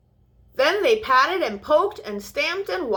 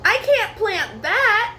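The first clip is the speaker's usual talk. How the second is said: high, slow upset plea; a touch of a little one close to tears; understated dismay, slow and high; mild cry; 10 semitones higher, 4 dB louder than usual. Acted. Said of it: "cried Scurry".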